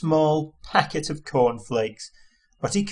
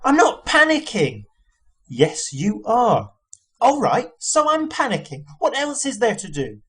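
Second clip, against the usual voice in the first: panicky Arthur; 9 semitones higher, 3 dB louder than usual. A narrator's reading.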